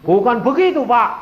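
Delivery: high, loud mock-tearful protest; retold crying. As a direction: plead as if crying. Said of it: "Ini orang kepalanya nangis". (menirukan orang menangis)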